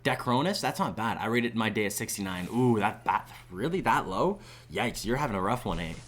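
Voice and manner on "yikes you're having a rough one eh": slight Canadian lilt on "eh"; Canadian accent. Real, not acted. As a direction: let a touch of Canadian slip out. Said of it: "that sounded very Canadian".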